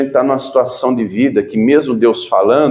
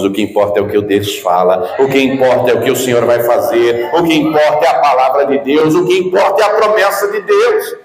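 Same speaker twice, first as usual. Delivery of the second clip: building preaching fervour; 2 semitones lower than usual. Real, not acted. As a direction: drive the refrain upward, phrase by phrase. Preacher builds a repeated refrain.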